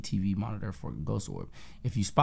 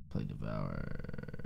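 mock deep voice; 13 semitones lower, 11 dB quieter, much slower than usual. Mock reading of chat.

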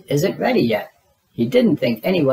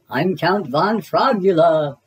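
mock vampire; 3 semitones higher, slower than usual. Froggy plays vampire.

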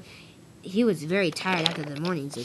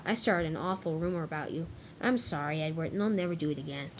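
soft, sheepish confession; subdued apology; 5 dB quieter than usual. Acted. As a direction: own up quietly and apologise. Gordon confesses and apologises to Edward.

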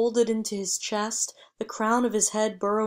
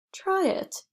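bright, much higher coaxing voice; said smiling; 11 semitones higher than usual. A narrator's reading. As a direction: coax him, a smile in the voice.

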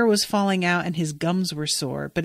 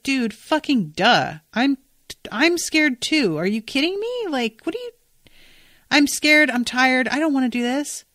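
exasperated fear; 7 semitones higher than usual. Retold or imitated. Lyriel to Sam, admitting she's scared too, in a high exasperated whine. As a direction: squeal it out, scared and fed up.

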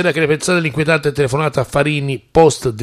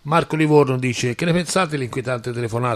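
sucking a hard candy; 4 dB quieter than usual. Real, not acted. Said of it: "E c'ho la caramella in bocca".

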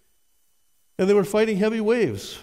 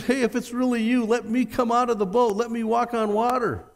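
eager Peter; 6 semitones higher than usual. Retold or imitated. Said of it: "huge surprise when Peter says".

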